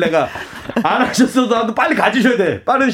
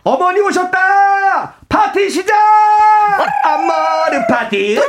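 surprise party shout; 10 semitones higher than usual. Acted. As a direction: cheer out a surprise welcome. Acted surprise party for mother.

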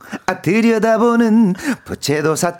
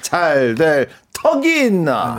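comedy catchphrase; 4 semitones lower, much slower than usual. Retold or imitated. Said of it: "김영곤 선배님".

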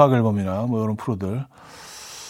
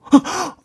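a sharp, much higher gasp of shock. Shown as a demonstration. Husband hearing the news, gasping in surprise. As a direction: gasp as if you just dropped what you were holding. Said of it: "막, 뭐 이런 정도로".

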